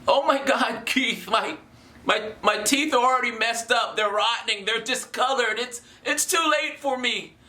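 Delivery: worried viewer. Retold or imitated. Viewer tells the host his teeth are past saving, lightly mock-worried. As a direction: protest like a worried fan making excuses.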